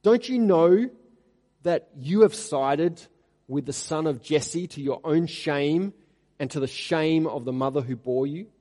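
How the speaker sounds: angry rebuke. Acted. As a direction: berate the disloyal son. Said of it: "He's being nasty here".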